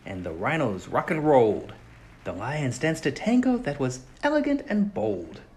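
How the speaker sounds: put-on lively read-aloud for children, swinging up and down with the story; storybook reading. A narrator's reading. Narrator reading a story aloud to young listeners, animated. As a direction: tell it like a bedtime picture book. Reads picture book to children.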